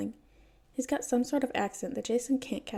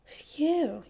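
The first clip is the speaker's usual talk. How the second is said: mock relieved phew; 6 semitones higher than usual. A narrator's reading. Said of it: "he says, grinning".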